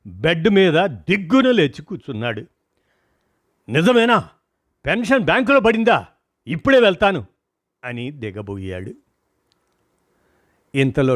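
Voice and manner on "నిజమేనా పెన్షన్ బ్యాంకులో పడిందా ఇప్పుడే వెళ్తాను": excited. A narrator's reading. Patient suddenly jumps up excited.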